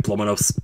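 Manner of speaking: "nose" ending in a crisp S; quick "blow my nose" with "nose" as "nohss"; unvoiced S closing "nose". Shown as a demonstration. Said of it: "It just sounds so weird".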